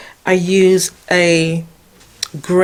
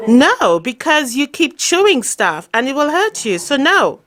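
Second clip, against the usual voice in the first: talking to the dog; 3 semitones higher than usual. Real, not acted. Owner telling her dog Jackson he can't come in, fond and firm. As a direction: keep the pup out of the room kindly.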